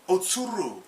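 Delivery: loud urgent call of her name. Retold or imitated. Afro calling to Okiku, urgent loud call. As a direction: shout her name to warn her.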